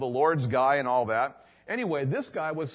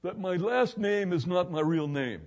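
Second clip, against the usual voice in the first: higher, strained retold voice; worried confession; 4 semitones higher than usual. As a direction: admit it like it hurts. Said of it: "and he goes".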